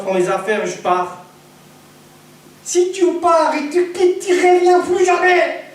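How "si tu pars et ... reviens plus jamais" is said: high, slow, put-on voice of a scolding old woman; hammed-up warning from the mother-in-law; mock mother-in-law threat. Mother-in-law warning son-in-law not to leave, put-on high voice.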